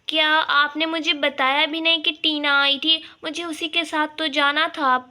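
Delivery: indignant reproach; upset. Acted. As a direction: bahu scolds saas. Bahu upset Tina visit hidden.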